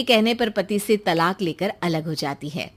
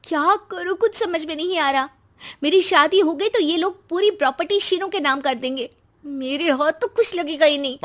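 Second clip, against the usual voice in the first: higher, agitated fretting; restless worry; 4 semitones higher than usual. Acted. Sister brooding over property going to brother, restless. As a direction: fret aloud over losing the inheritance. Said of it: "सृष्टि का मन शांत नहीं होता".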